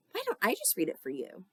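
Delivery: lightly sweetened helpful-daughter tone; perfect daughter voice. Acted. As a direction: sound innocently eager to help. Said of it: "in my very perfect daughter voice".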